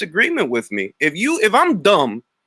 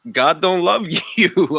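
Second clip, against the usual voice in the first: laughing. Real, not acted. Streamer laughing at the troll in the comments. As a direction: taunt through laughter, slow.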